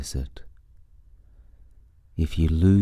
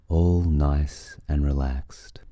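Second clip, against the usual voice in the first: whispering; slower than usual. Acted. Relaxation cue, trailing into whisper.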